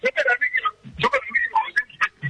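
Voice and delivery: garbled, robotic voice on a bad phone line. Real, not acted. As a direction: sound like a broken robotic call. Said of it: "medio robótico salís".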